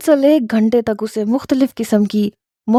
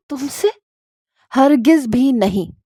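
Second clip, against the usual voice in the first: lightly voiced incredulous rejection; incredulous refusal; 4 semitones higher, slower than usual. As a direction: refuse as if the idea is absurd. She scornfully rejects his proposal.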